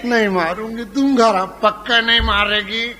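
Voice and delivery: ordinary talk, nothing marked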